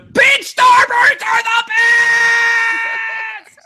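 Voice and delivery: high, slow drawn-out scream; screaming rant. Acted. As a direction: bellow it like a madman.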